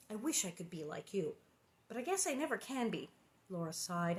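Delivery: reading the chapter aloud, voicing the girls lightly; storybook reading with lightly voiced sisters; story narration. A narrator's reading. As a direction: tell it like a bedtime story. Reads the book aloud.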